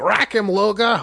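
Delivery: Boston accent holler.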